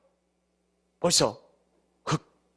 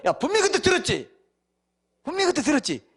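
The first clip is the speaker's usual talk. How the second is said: raised, accusing voice of judgment; God confronting; 10 semitones higher, 3 dB louder than usual. Acted. At judgment God demands, lightly voiced, raised and stern. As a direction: press the question from above.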